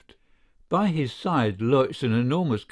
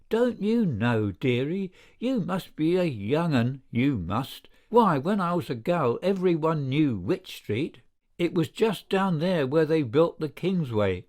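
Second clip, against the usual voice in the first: high whining woman; 4 semitones higher than usual. Acted. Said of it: "a high, whining, insistent voice".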